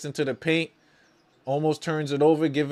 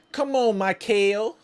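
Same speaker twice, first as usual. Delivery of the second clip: urging a player on; 7 semitones higher than usual. Real, not acted. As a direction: egg him on, pitched up high.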